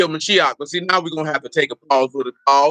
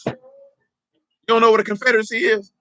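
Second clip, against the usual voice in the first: disbelief; 6 semitones higher than usual. Real, not acted. Teacher incredulous at class.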